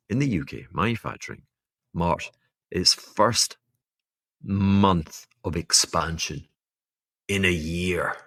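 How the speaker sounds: slow, deliberate reading of the news; said slowly. Shown as a demonstration. Podcast host reading UK news slowly to listeners. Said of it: "let me say it slowly".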